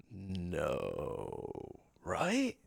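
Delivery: low, hushed, half whispered; realising with dread under his breath; quiet dread. Acted. The Stoneborn eyeing his stone skin in hushed dread. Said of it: "he's like".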